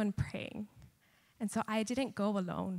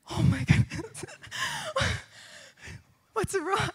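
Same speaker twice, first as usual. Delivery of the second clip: students' alarm; 11 semitones higher than usual. Retold or imitated. Students react to teacher crying.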